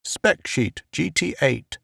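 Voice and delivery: soft, hushed aside; whispered aside. A narrator's reading. A man murmurs the spec sheet to Murchison, hushed. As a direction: keep it down, just for him. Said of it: "whispered something to the".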